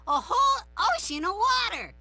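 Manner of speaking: high, loud, urgent cry; excited exclamation. Acted. Larry wanting all the kids to pray for water, excited. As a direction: build it big and urgent.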